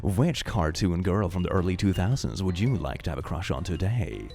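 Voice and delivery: polite help-desk read, lightly voiced; customer service voice. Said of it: "the customer service kind of thing".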